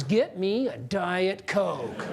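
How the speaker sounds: slow, laughing "Get me a Diet Coke"; slow laughing request. Shown as a demonstration. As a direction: savor each word of "Get me a Diet Coke" through a chuckle. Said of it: "turn and say to your boss these words".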